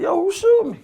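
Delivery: imitating his own alarm when shot; mock frantic yell; retold panicked yell. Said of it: "I'm looking like".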